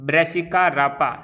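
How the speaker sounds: "Brassica rapa" stretched out slowly, every syllable clear; slow dictation. Shown as a demonstration. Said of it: "ताकि आप इसको ढंग से pronounce करना सीख जाओ".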